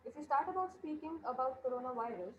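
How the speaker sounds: very faint, distant voice; barely audible. Real, not acted. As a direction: voice lost far from the mic. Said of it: "Still, we are unable, unable to listen you".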